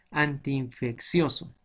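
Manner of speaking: "antiinfeccioso" slowly, an-ti-in apart; slow syllable-by-syllable "antiinfeccioso"; separated double i. Shown as a demonstration. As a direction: stretch the two i's in "antiinfeccioso". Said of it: "entonces se separan".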